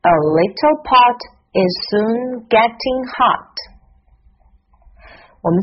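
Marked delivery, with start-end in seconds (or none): 0.0-3.5 "A little pot is soon getting hot" run together as one sentence, pitched higher; linked reading. Shown as a demonstration. Teacher joins the practised words for learners, linked reading. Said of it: "把它连起来读一下".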